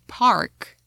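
park with a full R, American style. Shown as a demonstration. A teacher showing the American R. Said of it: "in American".

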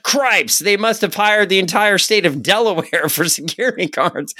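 high, hammed-up villain voice. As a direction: squeal it like a cartoon villain. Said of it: "the Melter's like".

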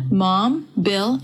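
usual speaking voice

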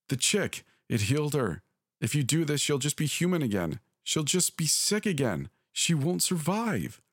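high, anguished pleading; mother confesses to her child, voice pitched high; distressed mother. A narrator's reading. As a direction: beg your child to understand. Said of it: "My mother was screaming".

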